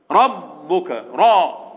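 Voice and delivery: "ربك" with a thick, dark "ra"; heavy r. Shown as a demonstration. Teacher showing pupils the heavy letter, thick r in "ربك". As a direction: make the r of "ربك" full and backed. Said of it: "راء مفخمة هنا".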